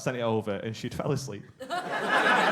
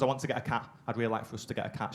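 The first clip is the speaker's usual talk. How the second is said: softer, sweet request; soft pleading girlfriend; 3 semitones lower, 7 dB quieter, faster than usual. Retold or imitated. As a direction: ask gently, a little pleading. Girlfriend voiced asking for cat.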